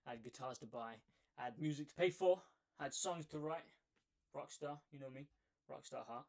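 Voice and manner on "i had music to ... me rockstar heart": breathless from running downstairs; out of breath. Real, not acted. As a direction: talk while catching your breath. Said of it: "Forgive me, I'm out of breath".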